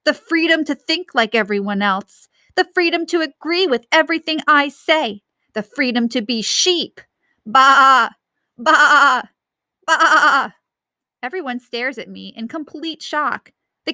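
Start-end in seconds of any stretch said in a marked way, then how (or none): 0.0-7.0 pompous mocking dictator speech; hammed-up mock dictator; impersonating Loving Leader. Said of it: "doing my best impersonation". 7.4-10.5 loud, higher baa like a sheep; playful sheep imitation; mock sheep bleats. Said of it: "doing my best impersonation".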